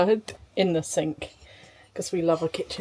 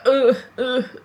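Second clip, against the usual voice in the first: short, louder mock groans of pain; imitated pain grunts; 3 semitones higher, 4 dB louder than usual. Mum showing baby's teething shake, mock pained grunts. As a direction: mimic jolts of sharp pain. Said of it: "if you were getting sharp pain, you'd be like".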